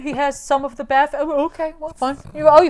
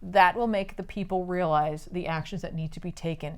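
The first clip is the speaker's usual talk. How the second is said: softer, lower, lightly acted scheming; measured villain speech; 4 semitones lower, 8 dB quieter than usual. Villain explains his plan to doubtful followers, quietly measured.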